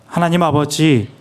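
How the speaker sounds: reverent prayer, measured and steady; interpreted prayer. Acted. Interpreter praying in Korean for the church, reverent. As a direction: pray it humbly for the people.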